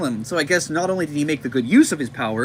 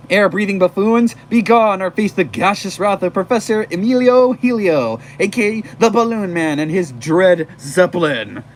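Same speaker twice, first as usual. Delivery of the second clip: loud, slightly raised villain proclamation; lightly pitched-up cartoon villain; Balloon Man; 3 semitones higher, 5 dB louder than usual. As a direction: announce yourself like a pompous comic-book villain. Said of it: "Balloon Man's lines in a high, squeaky voice".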